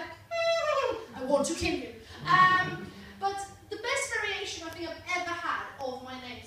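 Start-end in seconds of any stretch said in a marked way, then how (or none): 0.0-1.9 forced smile. Retold or imitated. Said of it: "I have to smile".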